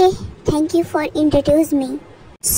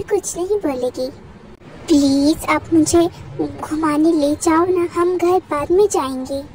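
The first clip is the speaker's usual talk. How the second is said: put-on lightly raised, childlike student voice; pouty student. The student questions the principal, a light childlike whine. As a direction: whine it like a spoiled kid.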